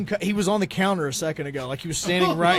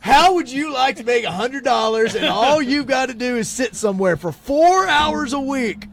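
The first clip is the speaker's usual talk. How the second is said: pyramid scheme pitch; 5 semitones higher, 3 dB louder, slower than usual. Retold or imitated. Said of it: "It sounded like a pyramid scheme".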